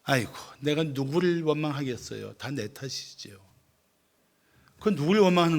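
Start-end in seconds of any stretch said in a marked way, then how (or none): 0.0-3.4 lightly acted resigned lament. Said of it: "어떤 사람이 이렇게 한탄합니다".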